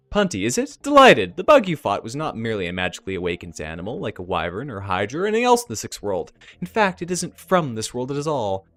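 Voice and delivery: effusive elf. Acted. Elf meets Punty and explains the bug, effusive. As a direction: greet with a flourish, then explain with relish. Voices Painted Elf addressing player.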